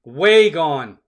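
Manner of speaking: loud call of a homer; home run call. Real, not acted. Broadcaster calling a Goldschmidt homer, loud. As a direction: belt it out as the ball leaves.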